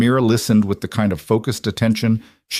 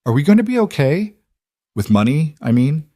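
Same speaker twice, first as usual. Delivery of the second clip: talking through a mouthful of cookie; child voice with mouth full of food; 6 semitones higher, 3 dB louder than usual. Acted. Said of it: "Mira said through a mouthful of cookie".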